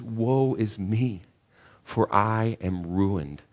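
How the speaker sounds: slow, soft woe is me; slow lament. Acted. Preacher voicing Isaiah before the Lord, slow and hushed. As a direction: drag it out as a man undone.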